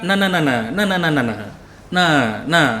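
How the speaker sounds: "nah, nah, nah" dropped to normal pitch, falling. Shown as a demonstration. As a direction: say "nah, nah" calmly, settling down. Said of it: "Kan tuh turun ya".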